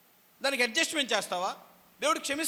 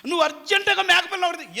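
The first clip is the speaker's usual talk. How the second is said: loud, higher hurried mother's order; urgent mother; 8 semitones higher, 8 dB louder than usual. Retold or imitated. Rebekah urgently orders her son Jacob to fetch a kid. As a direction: rush the boy like an anxious mother. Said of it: "యాకోబుకి".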